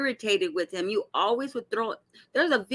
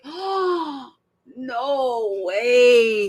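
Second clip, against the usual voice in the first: shocked disbelief; much slower than usual. Retold or imitated. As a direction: react as if you can't believe your eyes. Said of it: "y'all, I was like".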